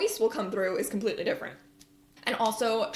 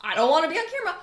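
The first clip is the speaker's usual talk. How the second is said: mock reluctant whine; 7 semitones higher, 5 dB louder, much faster than usual. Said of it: "a lot of you that are like".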